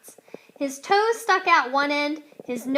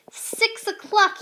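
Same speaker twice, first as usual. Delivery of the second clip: hungry wolf; 10 semitones higher, 6 dB louder, slower than usual. A narrator's reading. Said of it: "staring at her fat belly".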